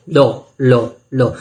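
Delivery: लो said with the tongue curled up where डो is made; retroflex la. Shown as a demonstration. Teacher demonstrating the Vedic retroflex la to students, tongue curled back. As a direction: slide from डो into a retroflex लो. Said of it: "वहीं पे आपको रख के लौ बोलना है".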